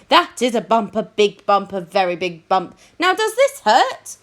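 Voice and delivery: lightly voiced nurse, emphatic; nurse examining.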